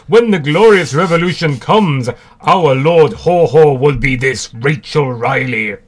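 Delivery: jokey Russian comrade proclaiming; Russian accent. Retold or imitated. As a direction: ham up a Russian accent, dragging the last part. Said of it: "that's my Russian accent".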